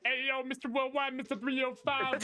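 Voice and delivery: put-on high, Spanish-accented party voice; Spanish accent, throat squeezed; Spanish-accented hype man; rapper impression. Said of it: "people doing rapper impressions".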